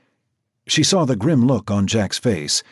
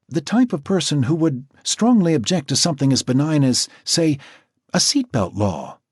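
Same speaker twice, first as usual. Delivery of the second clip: higher, measured professional woman's voice; Natasha the doctor; 6 semitones higher than usual. A narrator's reading. Natasha explaining the profile to Jack, higher and measured. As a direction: speak as the composed doctor.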